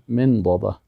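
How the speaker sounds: "من داده" modelled carefully, first word repeated; correct pronunciation. Shown as a demonstration. Teacher asking students to pronounce correctly, model pronunciation. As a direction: sound out "من داده" for learners to copy. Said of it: "درست تلفظ کنین".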